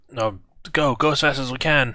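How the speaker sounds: hushed whisper in a character voice. Voicing a character urging the group down a hidden passage: whispering in character. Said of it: "just kinda whisper".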